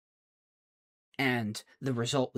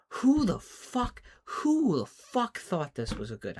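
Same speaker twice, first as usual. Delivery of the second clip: louder, higher, exasperated venting; real frustrated rant; 4 semitones higher, 4 dB louder than usual. Real, not acted. Wrestling fan fuming at the booking, loud and exasperated. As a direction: let the disbelief boil over into near shouting.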